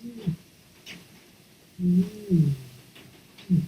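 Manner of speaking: soft short hums fading toward breath; quiet varied mm sounds. Shown as a demonstration. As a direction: let the hum shrink inward. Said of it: "I might start playing with the".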